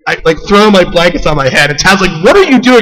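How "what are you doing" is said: high, loud, baffled "what are you doing"; wife's puzzled question. Retold or imitated. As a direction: mimic the wife's disbelief, pitched up. Wife reacts to him hiding.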